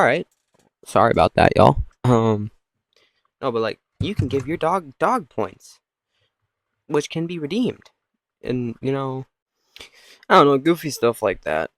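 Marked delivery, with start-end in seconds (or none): 4.0-7.9 lightly voiced commercial; mock announcer lilt; resume a playful sales pitch; ad read. Resumes mock app advert.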